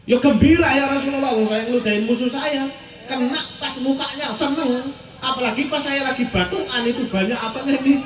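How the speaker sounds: high, lively retold glee; gleeful. Spitter confesses his joy to the Prophet, gleeful. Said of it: "hatimu seperti apa? ... gembira saya".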